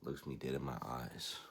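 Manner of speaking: usual speaking voice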